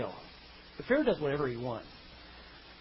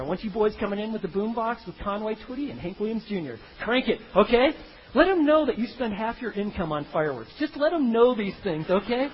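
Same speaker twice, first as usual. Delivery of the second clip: higher, louder hammed-up coach giving orders; coaching the brothers; 3 semitones higher, 3 dB louder than usual. Joseph coaches Reuben and Levi to look bad, hammed-up higher bossy voice. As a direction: egg them on like a sly big brother. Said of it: "And he's gonna get the picture".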